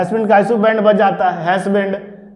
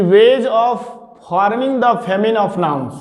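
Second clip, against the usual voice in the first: slow dictation; much slower than usual. Shown as a demonstration. Teacher dictating rule heading.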